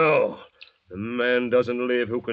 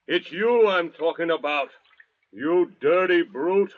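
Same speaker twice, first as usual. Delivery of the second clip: contemptuous outburst; 3 semitones higher than usual. Acted. Convict insulting the native.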